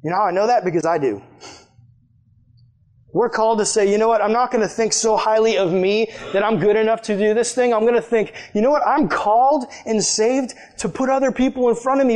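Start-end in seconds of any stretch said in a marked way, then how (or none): 3.1-12.2 preaching. Acted. Preaching to youth group.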